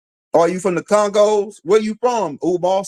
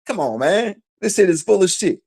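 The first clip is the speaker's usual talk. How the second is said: incredulous guy; 4 semitones higher than usual. Retold or imitated. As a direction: play the guy who can't believe his horse's results. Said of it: "And he said".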